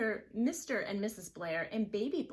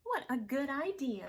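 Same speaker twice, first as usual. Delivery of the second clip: Missus Blair; 7 semitones higher, 4 dB louder than usual. Acted. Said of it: "said Missus Blair".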